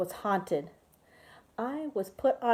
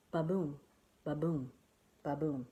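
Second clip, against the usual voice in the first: slow heartbeat; 4 semitones lower, 6 dB quieter than usual. Acted. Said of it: "heart slowed down to".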